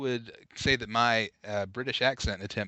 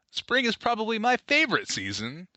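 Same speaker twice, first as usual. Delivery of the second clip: put-on British accent, pitched up; terrible British accent; 4 semitones higher than usual. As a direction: read it as a hammy fake Englishman. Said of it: "terrible accent I'm delivering".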